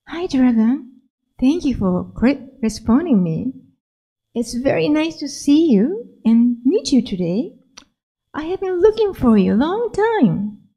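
a hint of a happy small girl greeting; little girl, gently eager; lightly voiced little girl. Lily greets the dragon.

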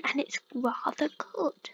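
a touch of posh accent. Real, not acted. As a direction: slip lightly into posh British English. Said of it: "Ooh, I've turned posh".

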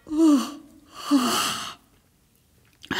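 drawn-out waking sigh; sleepy, astonished "oh". Acted. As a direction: sigh "oh" like a princess just waking up. Princess waking, sighing in surprise.

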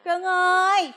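forced sweetness. Acted. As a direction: sweet-talk through gritted politeness. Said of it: "phải nhỏ nhẹ với bệnh nhân".

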